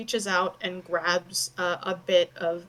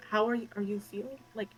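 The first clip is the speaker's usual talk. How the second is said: fussing mother; 4 semitones higher than usual. Acted. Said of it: "she's very much like".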